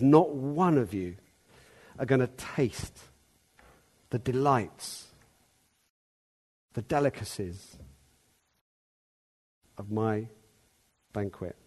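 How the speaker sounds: hushed and slow, falling to almost nothing; voice of the host. Retold or imitated. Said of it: "He's in the voice of the host".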